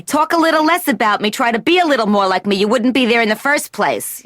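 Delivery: a hint of a nagging mother; lightly voiced mother's lecture. Patient mimicking her mother's nagging advice. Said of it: "She's always saying to me".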